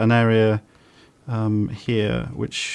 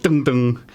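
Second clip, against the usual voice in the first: imitated bouncing thuds; 2 semitones higher than usual. Mimics bouncing off tree and wall.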